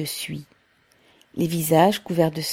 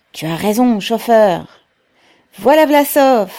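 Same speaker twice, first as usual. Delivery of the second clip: higher, louder cries; shouting crowd; 4 semitones higher, 9 dB louder than usual. A narrator's reading. Workers hailing the stoker and Pavel, shouting. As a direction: shout approval over the noise.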